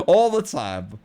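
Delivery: slow "All the time" spoken through a laugh; amused, slowed emphasis; laughing, drawn out. Real, not acted. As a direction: let the laugh carry the words out slowly. Laughing punchline about constant news.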